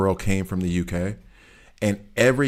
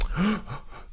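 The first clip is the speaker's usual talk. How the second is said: mock gasp; 12 semitones higher, 5 dB quieter than usual. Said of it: "they were like".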